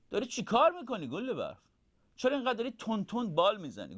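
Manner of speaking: a hint of a curious owlet; lightly voiced owlet. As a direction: ask like a puzzled little owl. Owl brother questioned at night.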